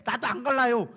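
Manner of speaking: acted loud, petulant refusal; stubborn refusal. Preacher voices Moses balking at the promised land, stubborn refusal. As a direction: refuse outright like a balking child. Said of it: "땡깡 쓰고 있는 거 똑같은 거예요".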